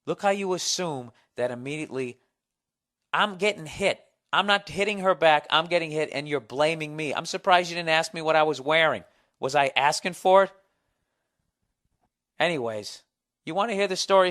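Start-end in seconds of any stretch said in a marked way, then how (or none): 3.1-10.5 louder, raised-pitch mock complaint; mock indignant protest. Man mocking blame for getting hit, mock indignant. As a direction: protest like the wronged party.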